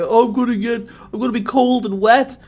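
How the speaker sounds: retelling his first rain in America; mild mock panic. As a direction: fret like a boy caught in rain. Own past self fretting.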